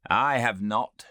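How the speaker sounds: mayor admitting ignorance; provincial mayor. Acted. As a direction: declare it stoutly. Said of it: "said the provincial mayor".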